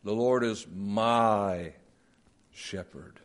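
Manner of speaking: slow, quiet reading with a pause; stress on Lord with pause. Shown as a demonstration. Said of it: "It works well in verses in the Psalms".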